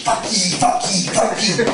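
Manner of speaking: imitated Scottish kid swearing. Scottish kid swearing on the beach, mock Scottish accent. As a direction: curse in a put-on Scottish accent. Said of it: "swearing in Scottish".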